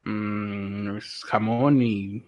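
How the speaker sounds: chewing while talking; talking through a mouthful of sandwich; mouth full. Real, not acted. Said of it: "¿De qué es tu sándwich".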